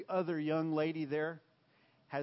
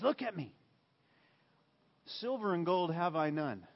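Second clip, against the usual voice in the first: Peter speaking; 2 semitones higher than usual. Retold or imitated. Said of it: "And Peter says".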